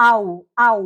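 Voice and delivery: আউ said with rounded lips. Shown as a demonstration. Teacher models a German vowel for learners, আউ with rounded lips. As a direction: round the lips into one gliding আউ. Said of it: "ঠোঁট গোল করে".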